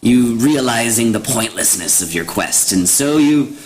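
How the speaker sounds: lightly voiced mocking hag; a hint of a cackling crone, taunting. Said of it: "gotta do it with a hag voice".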